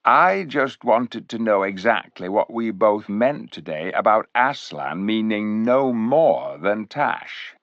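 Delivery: a hint of silky slyness; silky cat voice. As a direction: coax the captain like a scheming cat. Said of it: "in that silky voice of his".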